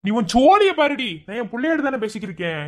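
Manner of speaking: mind your business. Acted. Husband snaps at wife.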